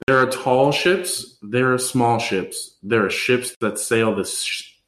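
slow recital, stumbling and restarting; tongue-tripped toast. Real, not acted. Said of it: "Who knew this was a tongue twister?".

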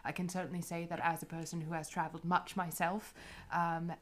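courteous, formal adventurer voice; lightly voiced gracious diplomat, measured and polite; Helvetica's polite voice. Helvetica courting a travel partner, polite and formal.

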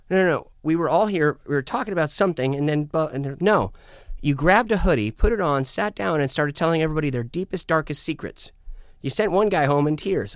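rushing to fill him in; excited retelling. Retold or imitated. Friends recount the night in a loud rush.

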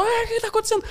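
high-pitched mock panic cry; alarmed crowd. Audience member reacts to the man collapsing, high mock alarm. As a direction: imitate an audience member crying out in confusion.

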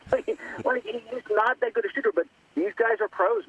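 high, amused laughing voice. Real, not acted. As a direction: laugh through the words. Laughing at own joke about shooter.

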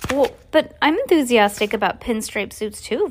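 lightly voiced polite girl; a hint of a dutiful young girl; Violet's voice. Violet politely faking delight, lightly voiced. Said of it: "I thought that was gonna be the other lady".

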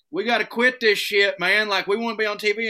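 a pained, full-bellied complaint; groaning in food pain. Retold or imitated. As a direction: whine like you ate too much. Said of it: "I'm like".

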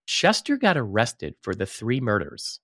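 slow, deliberate, each word weighted; over enunciating; said slowly. Shown as a demonstration. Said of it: "Let me say this slowly".

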